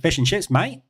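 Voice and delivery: Australian accent. Shown as a demonstration. English streamer answers a chat request, in a light Australian accent. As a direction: say it like a friendly Aussie bloke, in an Australian accent. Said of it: "do you want me to say it in an Australian accent?".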